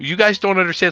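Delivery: mock very high-pitched, tearful, blubbering crying voice. Retelling how caught authors complain to everyone: imitating someone crying. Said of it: "crying and being like".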